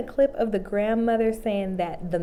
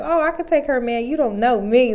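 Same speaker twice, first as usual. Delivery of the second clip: sassy; 2 semitones higher, 3 dB louder than usual. Retold or imitated. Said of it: "this is essentially what she was saying".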